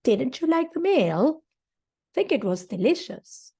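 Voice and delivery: emphatic surprised tone; surprised annoyance. Shown as a demonstration. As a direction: question rising high on meal, mock surprised. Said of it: "when you show surprise or annoyance".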